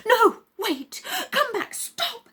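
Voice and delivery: high, loud cry after her; desperate call. Acted. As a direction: shout her back, pleading. Peter calls after fleeing Luba.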